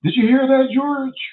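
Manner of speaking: high, loud startled white lady voice; mock white horror victim. White person in the horror movie hearing a noise, high and loud. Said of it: "a white person do this".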